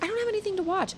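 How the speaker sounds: put-on high whiny child complaining; whiny kid voice. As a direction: whine like a bored kid. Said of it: "Charlotte was like".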